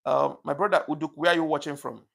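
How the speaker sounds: loud friendly call-out. Real, not acted. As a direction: call across to a friend in the chat. Calling out to a viewer.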